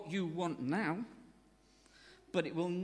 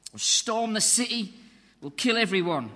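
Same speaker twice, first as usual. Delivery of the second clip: loud, rousing battle shout to the crowd; rallying war cry; 4 semitones higher, 10 dB louder than usual. Pretend. Crowd hyped for Jesus's Braveheart moment, shouting a war cry. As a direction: roar it like storming the gates.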